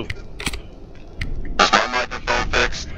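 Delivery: distorted robotic mic voice; slow, warped robot sound. Real, not acted. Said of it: "Sound like Darth Vader".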